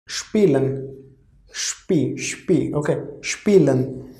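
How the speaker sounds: spielen said shpee-len; German pronunciation demo. Shown as a demonstration. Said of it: "overall pronunciation is spielen".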